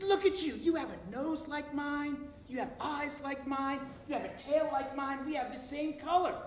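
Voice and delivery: high, listing each likeness; marveling coyote. Acted. First coyote tells the other they look alike, high wonder. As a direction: point out every feature with wonder.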